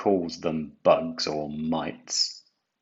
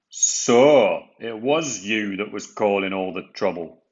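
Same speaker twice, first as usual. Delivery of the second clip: a lightly voiced stern boss, louder; Fat Controller realizing; 5 dB louder than usual. A narrator's reading. Fat Controller learning the truth, firm surprise. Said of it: "said the Fat Controller".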